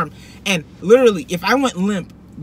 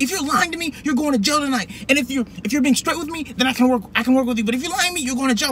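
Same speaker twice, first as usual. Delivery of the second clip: retold angry cop; 7 semitones higher than usual. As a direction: imitate a cop laying down a warning. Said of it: "starts cussing at me".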